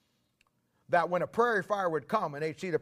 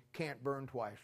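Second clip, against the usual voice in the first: quiet echo; 2 semitones lower, 10 dB quieter, slower than usual. Acted. Quiet echo after shout.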